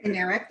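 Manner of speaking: Winnerick said as a model pronunciation; corrected pronunciation. Shown as a demonstration. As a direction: say Winnerick carefully, showing how it goes. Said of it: "that's how it's pronounced".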